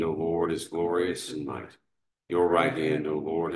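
ordinary delivery

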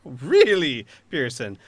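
incredulous mocking, loud at first; scornful villain. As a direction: scoff at the idea, then settle. Villain scoffs at honor plea.

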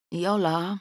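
ordinary delivery, nothing marked

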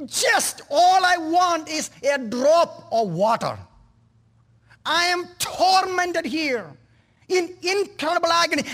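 a dying man begging for water, high and anguished; tormented man pleading. Acted. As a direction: plead from unbearable agony. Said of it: "he cried out".

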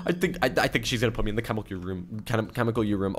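slurring words. Real, not acted. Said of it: "I literally am slurring my words".

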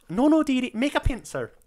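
put-on high, loud old-lady film voice; flustered dearie impression, pitched well up; Robin Williams. Fan quoting the restaurant teeth scene, high impression. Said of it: "It's Robin Williams' dialogue of, like".

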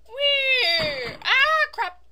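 high, loud drawn-out squeal; startled yelp. Real, not acted. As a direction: yelp loudly in alarm. Yelps as the game goes wrong.

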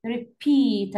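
repeat, weight on the final syllable; stress on PEAT. Shown as a demonstration. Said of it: "Stress on the second syllable".

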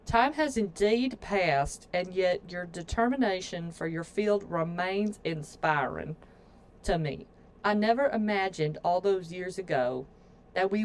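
a rough, loose attempt at a Southern accent. Reading her sister's letter aloud in a mock Southern accent. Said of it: "Southern accent".

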